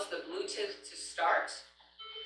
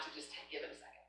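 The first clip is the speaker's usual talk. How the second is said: soft hush; 4 semitones lower, 19 dB quieter, much faster than usual. Real, not acted. Calming eager students, dropping voice.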